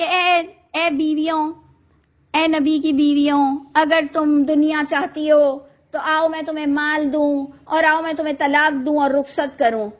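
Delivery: mock the angry way commentators read it. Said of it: "بڑے غصے میں کہا". (غصے سے پڑھنا، ہلکا سا نقلی انداز)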